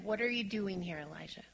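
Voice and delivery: softly asked, not accusing; gentle question. Shown as a demonstration. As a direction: ask it as a caring question. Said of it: "He's asking him a question".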